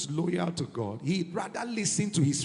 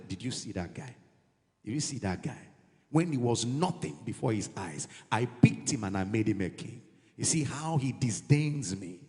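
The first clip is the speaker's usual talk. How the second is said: God's complaint; 7 semitones lower than usual. Retold or imitated. God voiced complaining to Samuel.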